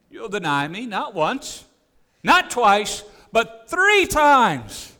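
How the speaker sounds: rising to a loud, slow end; solemn warning. Acted. Jesus warning Peter, building to a slow loud climax.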